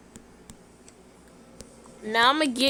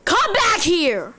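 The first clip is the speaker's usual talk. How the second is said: drawn-out pretend yell; calling after; 3 semitones higher, slower than usual. Parent calls fleeing child back, drawn-out yell. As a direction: shout after a runaway child.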